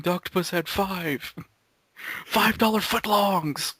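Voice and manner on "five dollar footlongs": slow, loud sing-song jingle. Acted. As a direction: belt out the commercial line. Quoting ad jingle.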